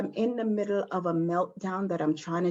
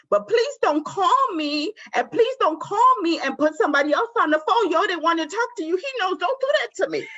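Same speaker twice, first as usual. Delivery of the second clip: laughing plea; 10 semitones higher than usual. Real, not acted. Laughing plea about phone calls.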